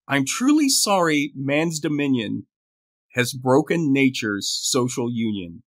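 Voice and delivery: measured verse reading, paused line by line; poem recital. Acted. Co-host reading the poet's apology to a mouse, reciting. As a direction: recite in phrases, easing down at the end.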